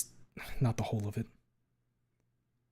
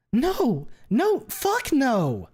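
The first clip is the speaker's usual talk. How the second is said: high, loud, dragged-out no; enraged denial; 13 semitones higher, 5 dB louder, much slower than usual. Acted. Fang rejects the accusation, high, slow and furious. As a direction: stretch each no out in fury.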